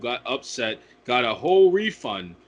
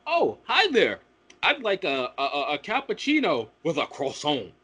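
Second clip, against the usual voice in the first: mock French customer. Customer ordering cappuccino and croissant, mock French. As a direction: put on a pretentious French touch for the pastry. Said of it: "the most Frenchiest fuck they could possibly become".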